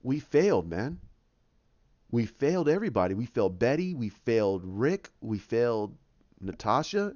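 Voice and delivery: low, subdued acted regret; Banner. Banner to Hulk on their failures, mild acted regret. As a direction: list the failures with understated sorrow. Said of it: "that's where you have Banner".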